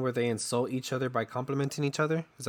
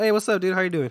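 loose, higher and louder casual greeting; casual cool voice; 7 semitones higher, 3 dB louder than usual. Retold or imitated. Greeting a cool patient in a loud, breezy casual voice. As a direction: play it laid-back and buddy-buddy. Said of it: "they talk cool to me".

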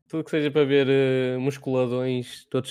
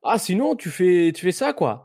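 French quoi habit; 4 semitones higher, slower than usual. Retold or imitated. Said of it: "ganhei um trejeito que é o quá".

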